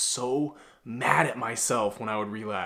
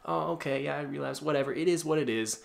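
mock easygoing shrug, a little softer; soft advice; 3 dB quieter than usual. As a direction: imitate someone letting themselves off lightly. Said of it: "the soft kind of advice".

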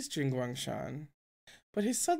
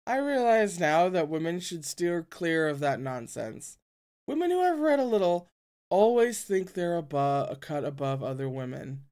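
put-on drunk man voice. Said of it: "his stumbling words".

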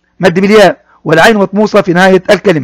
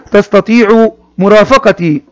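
slow model reading; slower than usual. Shown as a demonstration. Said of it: "teacher reads phrase for pupils".

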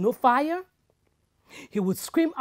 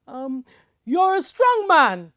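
coaxing woman; 4 semitones higher, 8 dB louder than usual. Acted. Woman coaxes strong man.

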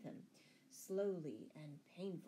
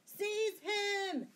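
high, loud shouted command; gasped order; 13 semitones higher, 7 dB louder than usual. A narrator's reading. Sheriff ordering his men onto Robin, alarmed shout. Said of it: "gasped the sheriff".

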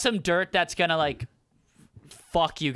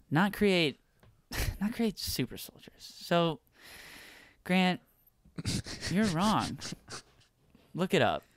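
gentle read; 2 semitones lower, slower than usual. Shown as a demonstration. His turn at the gentle read.

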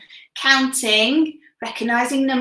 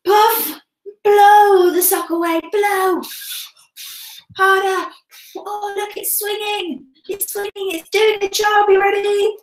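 put-on kids show host; 8 semitones higher than usual. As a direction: cheer them on, amazed. Huff and puff, sock swinging.

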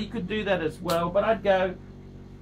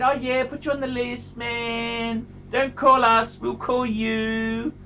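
brushing him off, mock-casual, the last line dragged slowly; dismissive dealer; slower than usual. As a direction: play the smug dealer fobbing him off. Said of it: "They said".

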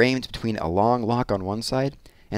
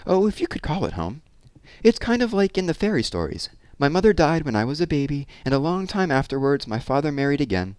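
reminiscing hairdresser; 7 semitones higher than usual. A narrator's reading. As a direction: start high and confide the childhood tale. Voices Miss Pearl's life story.

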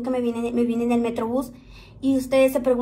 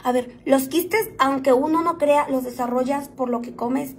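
slow careful retake. Shown as a demonstration. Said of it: "espérame, chicas, neta".

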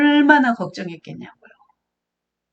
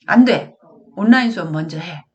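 firm refusal; 4 dB louder than usual. Acted. Mother refuses child's demand.

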